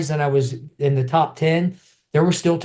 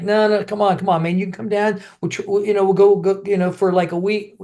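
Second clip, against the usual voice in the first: buddies coaxing; 5 semitones higher than usual. Retold or imitated. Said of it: "they're like".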